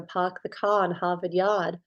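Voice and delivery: Boston accent with dropped r's. Shown as a demonstration. Narrator showing listeners how Boston talks, Boston accent. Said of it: "whether you live in Boston".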